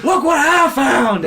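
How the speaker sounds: high, loud, slow and laughing; proud reveal. Retold or imitated. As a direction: show off the find with glee. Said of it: "he's like".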